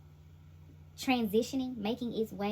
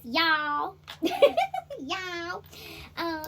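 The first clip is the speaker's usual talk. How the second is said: loud, high burst of laughter around "y'all"; laughing; 7 semitones higher, 6 dB louder, much slower than usual. Real, not acted. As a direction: laugh out loud between the words.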